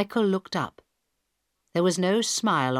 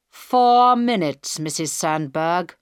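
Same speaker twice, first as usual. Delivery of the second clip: hijacker's cold voice; 7 dB louder, slower than usual. Acted. Hijacker counts down.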